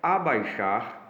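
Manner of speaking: slow, split into syllables A-bai-xar. Shown as a demonstration. Teacher sounding out Abaixar for the class, slow and syllabic. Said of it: "separação silábica".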